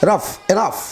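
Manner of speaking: "রাফ, এনাফ" each ending in an F sound. Shown as a demonstration. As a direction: demonstrate final F in "রাফ, এনাফ". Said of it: "জিএইচ এর উচ্চারণ ফ হয়ে যাচ্ছে". ("রাফ, এনাফ"-এ জিএইচ-এর ফ উচ্চারণ)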